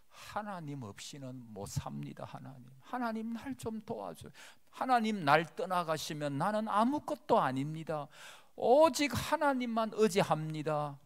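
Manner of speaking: 높은 목소리로 간절히 부르짖는 기도; 하나님께 매달리듯 높게 외치는 기도; pleading prayer. Acted. Acting a humble believer's prayer. (겸손한 신자가 하나님께 간구하듯)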